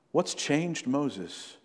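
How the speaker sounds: very slow, drawn-out question; slow rhetorical question. Acted. Preacher pressing the congregation on Moses, very slow question. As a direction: let every word hang.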